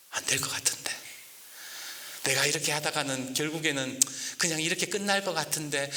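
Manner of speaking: whispered self-doubt; discouraged whisper. Acted. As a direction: breathe it out, losing heart. Discouraged Luther muttering. (주눅 든 루터의 속삭임)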